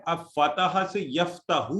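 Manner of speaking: یفتح said slowly, each sound drawn out; slow demo. Shown as a demonstration. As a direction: draw out فتح then یفتح. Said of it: "یہاں پہ کیا ہوا ہے؟".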